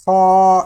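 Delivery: خا loud and heavy from the upper throat; heavy kha. Shown as a demonstration. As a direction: push خا out full and heavy. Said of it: "اس طرح کر کے".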